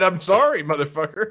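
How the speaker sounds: loud, high angry sorry; angry apology. Retold or imitated. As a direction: bark the apology. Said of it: "I said".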